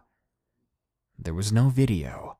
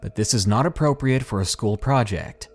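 frustrated; faster than usual. Acted. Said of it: "Mom's frustrated voice".

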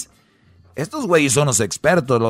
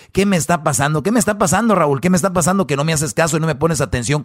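mock angry wife; 2 semitones higher, faster than usual. Acts wife mocking husband.

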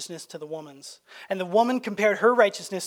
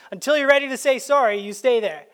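stern parent; 4 semitones higher, 5 dB louder than usual. Retold or imitated. Parent sending kid to room.

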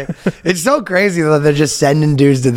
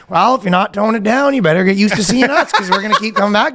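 high sing-song mock Canadian; hammed-up polite Canadian warning; Canadian accent; 9 semitones higher, faster than usual. Officers warn guy about Facebook posts, Canadian accent. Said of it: "the most Canadian interaction".

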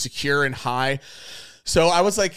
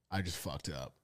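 hushed, sinking realisation; low, soft and resigned; quiet dread; 9 semitones lower, 16 dB quieter than usual. Retold or imitated. Stoned boyfriend confesses to his girlfriend, quiet dread.

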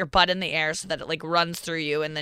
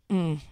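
agreeing hum; 2 semitones lower, 5 dB quieter than usual. Retold or imitated. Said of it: "Andrew will just go".

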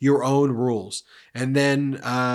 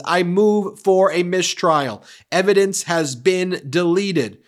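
louder, higher demand; demanding mistrial; 5 semitones higher, 5 dB louder than usual. Retold or imitated. Lawyer demanding a mistrial, imitated loud outburst. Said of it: "Alina Habba says".

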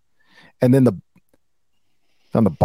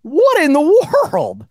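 surprised; 11 semitones higher than usual. Real, not acted. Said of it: "sounds just like an owl".

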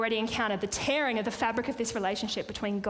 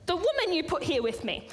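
stammering excuse; 6 semitones higher than usual. Retold or imitated. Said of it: "The man said".

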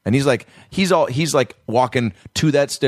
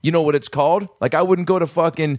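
mock indignant reminder, higher pitched; reminding them; 7 semitones higher than usual. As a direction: imitate an outraged customer stating the obvious. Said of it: "like, reminding them".

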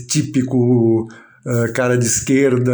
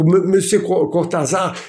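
broken French; 5 semitones higher, slower than usual. Retold or imitated. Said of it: "comecei a falar um patuá, assim, maluco".

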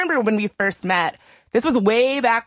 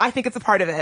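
laughing; faster than usual. Real, not acted. Both laugh while agreeing.

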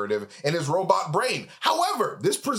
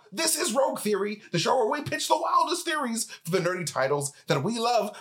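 ordinary delivery

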